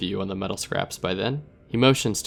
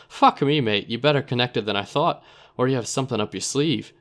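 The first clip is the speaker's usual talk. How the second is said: put-on startled dealer in accent; Narbo's surprised accent; 2 semitones higher than usual. Narbo reacting to the hint about his problem, accented. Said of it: "Narbo's a man of many accents".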